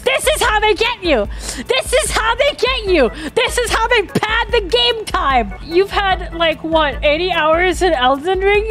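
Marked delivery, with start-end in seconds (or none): 0.0-5.5 higher-pitched indignant ranting; exasperated rant. Real, not acted. Gamer complaining about padded game time, exasperated rant. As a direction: rant it in rising outrage.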